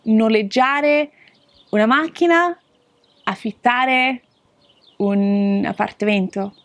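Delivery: careful Italian phrases; Italian demo. Shown as a demonstration. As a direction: model the phrases slowly.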